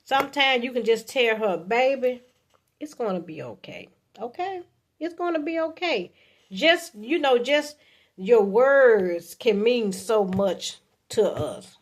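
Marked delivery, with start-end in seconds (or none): 1.6-6.1 tender reassurance. Acted. Voicing man comforting his woman.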